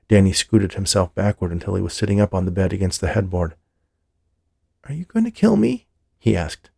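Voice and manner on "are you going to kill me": high, scared little voice; frightened child. A narrator's reading. Frightened boy asking the stranger if he'll kill him. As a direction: ask it like a terrified kid.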